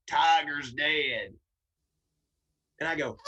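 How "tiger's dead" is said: slow, loud southern man's shout; gruff shout. Retold or imitated. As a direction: bark it out slow like a big bayou man. Burly bayou man announces death.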